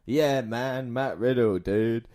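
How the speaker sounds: flat robotic stoner drawl; robotic dude voice. Retold or imitated. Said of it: "very kind of robotic".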